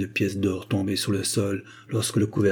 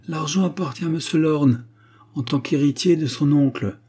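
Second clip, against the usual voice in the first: indignant retort, raised pitch and volume; angry; 6 semitones higher, 3 dB louder than usual. A narrator's reading. Agar defending Lorne's claim to the money, angry. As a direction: protest firmly with restrained anger. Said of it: "dit Agar avec colère".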